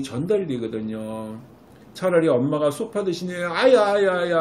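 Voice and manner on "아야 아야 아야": higher, louder ouch ouch ouch; playing the hurt sofa. Shown as a demonstration. Mom voicing the sofa being jumped on, louder and higher. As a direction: cry out as if you were the sofa. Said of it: "엄마가 소파 표정을 갖다 줘보세요".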